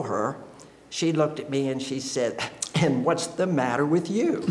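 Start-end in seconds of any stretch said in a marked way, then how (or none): 2.7-4.4 laughing through the wife's words; laughing while quoting. Retold or imitated. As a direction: repeat her question while laughing. Wife's puzzled question, retold laughing.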